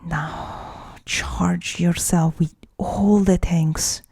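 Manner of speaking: slow meditation guide with long pauses; guided meditation. Acted. Guide leading listeners through feeling their anger, slow guided meditation. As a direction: guide them inward, phrase by phrase, leaving room to breathe.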